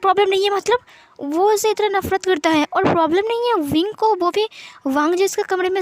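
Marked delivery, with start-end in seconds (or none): 0.0-0.8 shocked disbelief. A narrator's reading. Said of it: "वांग जी पूरा हैरान था".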